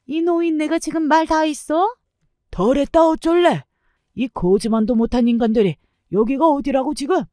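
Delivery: mother-in-law shrieking at the grandfather in outrage; indignant mother-in-law. Acted. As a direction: shriek back at the old man in disbelief.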